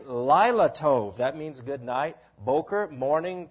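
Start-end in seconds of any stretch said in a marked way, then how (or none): 0.1-1.2 Lila tov said slowly as lee-lah tov; Hebrew greeting. Retold or imitated. Pastor recalling the evening greeting in Israel. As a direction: draw out Lila tov gently. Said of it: "they would say".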